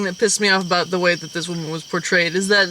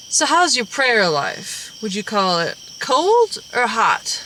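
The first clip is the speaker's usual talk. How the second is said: put-on slow old lady voice; slower than usual.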